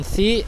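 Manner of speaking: "si" with a lisped th; tha sound. Shown as a demonstration. Teacher shows a mistake, "si" said as thi. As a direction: put the tongue between teeth on "si".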